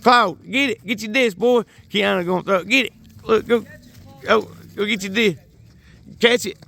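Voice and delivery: high, eager calls to the dog; excited dog-park cheering; calling the dog. Real, not acted. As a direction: egg the dog on to fetch the disc.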